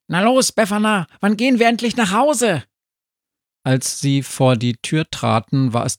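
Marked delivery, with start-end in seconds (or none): 0.1-2.6 very high, fast talking-dog voice; excited dog. A narrator's reading. Sami the dog pesters Befana to go home, excited. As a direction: urge impatiently, high and quick. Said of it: "Der Hund sprang aufgeregt".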